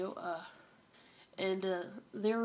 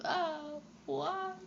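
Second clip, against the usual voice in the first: hammed-up lament, much higher; dramatic sigh; 7 semitones higher than usual. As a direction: whine it like a tragedy. Upset at late recording.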